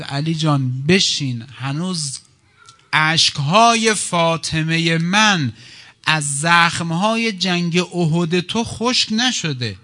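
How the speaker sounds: slow, emphatic, drawn-out plea; impassioned appeal. Acted. Prophet urging wounded Ali to sit down, impassioned appeal. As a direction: stretch each word with rising force.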